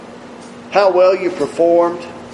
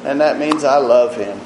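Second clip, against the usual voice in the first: lightly mocking a gushy believer; a hint of sappy, overwrought devotion; 4 semitones higher than usual. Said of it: "We think love is some gushy feeling".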